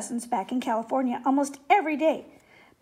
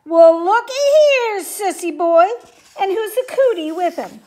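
booming voice; 5 semitones higher, 11 dB louder than usual. A narrator's reading. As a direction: boom it out across the room at them. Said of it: "a voice boomed out".

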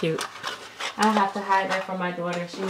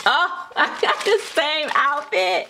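laughing; 8 semitones higher than usual. Real, not acted. Laughing at matching gifts.

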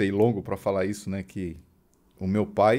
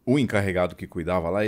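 ordinary talk, nothing marked

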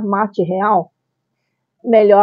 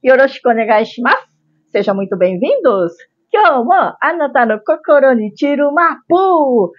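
cute anime streamer; 2 semitones higher than usual. Acted. Japanese-style cute channel greeting.

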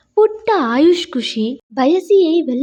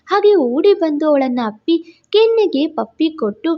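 usual speaking voice

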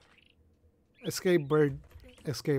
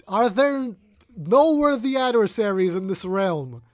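mock epic warrior; 3 semitones higher, 6 dB louder than usual. Mock epic challenge to creatures.

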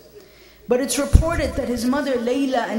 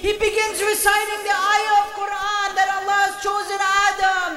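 impassioned lament; 8 semitones higher, faster than usual. Acted. Preacher to mourners at a majlis, high wailing lament. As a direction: pour out grief to the mourners at full force.

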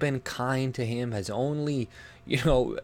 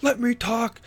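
high, loud, slow mocking whine; mocking Andy; 12 semitones higher, 4 dB louder, slower than usual. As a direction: sneer it back as a snappy whiny streamer. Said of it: "and he's like".

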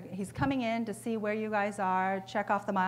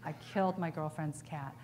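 glum customer; 3 semitones lower, 5 dB quieter than usual. Acted. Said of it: "Paul shakes his head and says".

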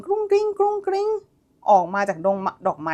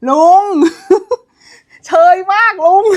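loud laughing teasing; laughing hard; 7 semitones higher, 6 dB louder than usual. Real, not acted. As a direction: burst out laughing at the corny line. Cracking up at cheesy line. (หัวเราะลั่นแซวลุง)

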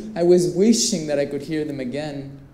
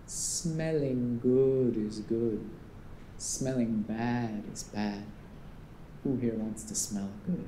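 slow, low Caribbean salesman's lilt; lightly imitated Caribbean perfume seller, slow and hypnotic; deep Caribbean accent; 5 semitones lower, 8 dB quieter, slower than usual. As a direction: draw each word out in a soothing Caribbean accent. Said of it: "he had this deep Caribbean accent".

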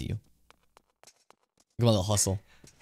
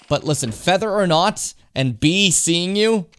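slow, loud, higher-pitched emphasis; mock exasperation; 7 semitones higher, 6 dB louder, slower than usual. Player complaining about bird and bee puns, slow mock exasperation. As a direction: stretch out the offending puns.

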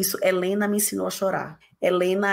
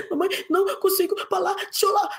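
put-on little girl voice; 9 semitones higher than usual. Voicing little daughter.

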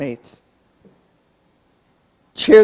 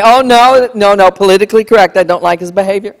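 mock defensive parent; 3 semitones higher, 6 dB louder than usual. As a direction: play the parent backpedaling, fast and loud. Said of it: "You say".

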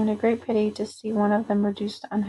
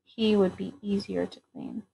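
softer, shamefaced admission; smaller voice; 6 dB quieter than usual. A narrator's reading. Dragon sheepishly concedes about the smaller one, in a small voice. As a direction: shrink the voice, a little sheepish. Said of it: "in a smaller voice".

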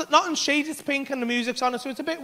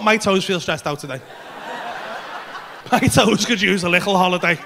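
laughing mock whine; 3 semitones lower than usual. Mock fretful inner voice.

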